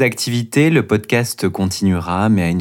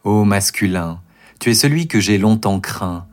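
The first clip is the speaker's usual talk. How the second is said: declaiming a poem. Acted. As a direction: recite it like a stage poem. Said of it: "déclamer une version courte de ce poème".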